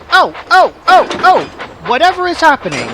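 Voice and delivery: high, loud, fast squealing trucks; screaming trucks. A narrator's reading. Silly trucks bumping together, high loud squeal.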